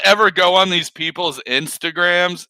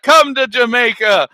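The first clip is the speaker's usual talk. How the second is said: raised-pitch tourism sales call; mock promo host; 6 semitones higher, 4 dB louder than usual. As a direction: invite them like a hammed-up travel ad. Resumes the Jamaica advert.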